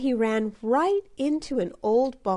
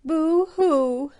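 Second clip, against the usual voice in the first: crying softly; 7 semitones higher, 5 dB louder than usual. A narrator's reading. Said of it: "Little Bear was crying softly".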